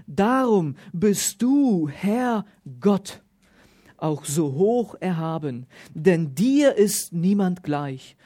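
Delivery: solemn Bible reading, stressing du and Herr; emphatic preacher's scripture read. Acted. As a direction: read the prayer out to the congregation.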